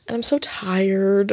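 breathy, worn-out whisper; tired whisper. Retold or imitated. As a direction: whisper it like you're exhausted. Retold tired reply, whispered.

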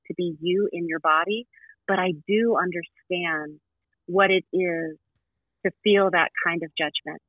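slow, gentle guide voice. Acted. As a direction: linger on each phrase.

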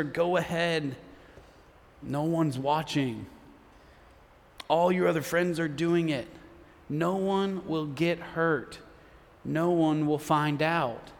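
low, slow, hushed coaxing; whispering temptation. Acted. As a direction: tempt softly, as if into someone's ear. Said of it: "Sin will whisper".

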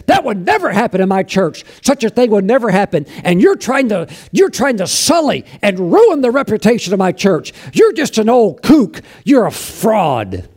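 a preacher voicing a huffy, insulted pastor; indignant pastor. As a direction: defend the church's good name, affronted. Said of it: "that pastor was so mad".

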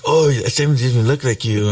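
lightly mock a relative's surprised comment; nosy relative. Relatives commenting at a family party, lightly mocked.

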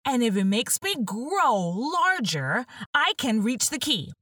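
Alice talking herself into it; young Alice reasoning. Acted.

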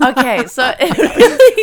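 laughing through the words. Real, not acted. Reacting to his joke about America, real laughter.

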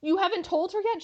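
mildly shocked question; a touch of disbelief; surprised question. Retold or imitated. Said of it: "And Frasier's like".

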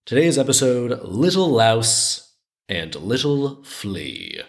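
slow, measured title read; episode title announcement. Real, not acted. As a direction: announce the story title, drawing out the names.

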